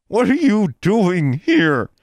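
slow, high furious demand; through clenched teeth. A narrator's reading. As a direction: grind it out in anger. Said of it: "she demanded through clenched teeth".

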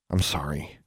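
low, soft, reluctant apology; half-meant apology. A narrator's reading. Alexandra apologizes to the offended twins, half-meant. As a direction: mumble a grudging sorry. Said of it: "and this time she meant it".

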